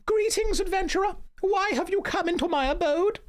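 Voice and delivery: very high, squeaky wise woman; a shrill mystical hermit greeting; Hild voice. Acted. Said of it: "I'm also voicing every character".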